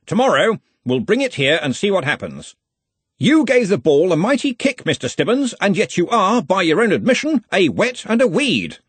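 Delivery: put-on loud, hearty old wizard; booming, confident wizard boss; bluff archchancellor. A narrator's reading. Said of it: "Ridcully voiced in story".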